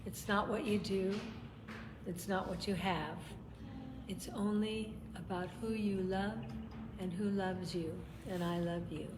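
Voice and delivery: soft voice from out of the blue; quiet inner voice. Retold or imitated. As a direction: hush it like a remembered voice. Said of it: "it said".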